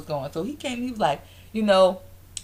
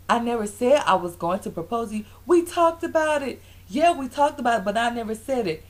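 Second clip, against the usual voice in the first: firm, raised-pitch mock rebuttal; a little stern; 5 semitones higher than usual. Retelling Walter correcting Kenya, a little stern. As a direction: imitate a boyfriend getting testy. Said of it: "he was getting a little stern in his tone".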